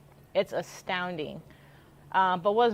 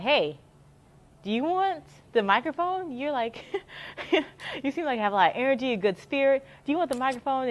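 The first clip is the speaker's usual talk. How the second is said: higher, lively imitation of Emmanuel offering the mic; upbeat staffer inviting; 4 semitones higher than usual. Emmanuel asks the vlogger to run the race, higher and eager. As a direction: pitch it up like an eager coworker recruiting you. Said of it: "So he was like".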